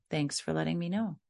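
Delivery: reply evenly, giving no reaction; calm, understated parent; unruffled parent. Acted.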